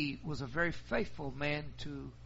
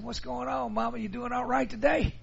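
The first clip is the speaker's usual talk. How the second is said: high, bright-pitched check-in; high, lively son asking his mama; cheerful son; 8 semitones higher, 3 dB louder than usual. Retold or imitated. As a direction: pitch way up, friendly and curious. Son greeting giddy mother.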